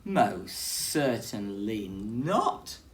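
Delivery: slow, firm refusal; slow stern no from a fussy bear. Acted. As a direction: lay down the law slowly like a stern bear. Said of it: "he said".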